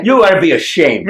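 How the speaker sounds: high, laughing reproach; playful telling-off with a laugh; mock scolding. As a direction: scold teasingly through laughter. Teasing scold, laughing at interviewer.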